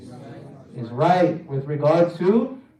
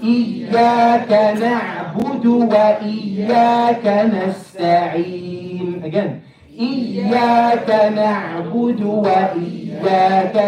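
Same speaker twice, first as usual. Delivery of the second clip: Quran recitation; 2 semitones higher than usual. Shown as a demonstration. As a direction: chant it steadily for others to follow. Leads group recitation.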